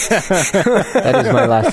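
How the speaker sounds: slow, high-pitched words through laughter; laughing. Acted. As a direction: struggle to stay in character while cracking up. Game master cracks up at joke.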